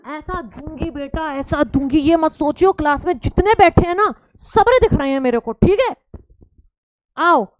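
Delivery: loud, half-joking scolding; a teacher threatening the class in fun; mock stern threat. Teacher imitating herself scolding the sleepy class. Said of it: "कह रहे हैं".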